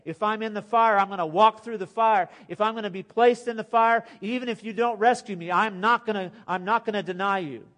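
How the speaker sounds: loud, high, impassioned vow; fervent declaration. Acted. Preacher voicing a believer's vow, loud and fervent. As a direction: proclaim it with all your heart.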